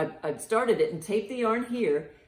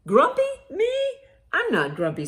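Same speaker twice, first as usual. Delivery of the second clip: grumpy denial; 12 semitones higher, 5 dB louder than usual. Acted. Grumpy monkey denies again.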